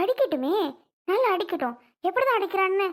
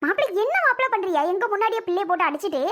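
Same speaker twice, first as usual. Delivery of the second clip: angry confrontation; faster than usual. Acted. Brother accusing the husband of hitting his sister, angry and fast. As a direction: rush at him, indignant.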